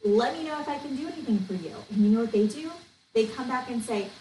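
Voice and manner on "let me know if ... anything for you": bright, high excited congratulations; excited for them. Retold or imitated. To a teammate who is leaving, high excited congratulations. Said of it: "I say".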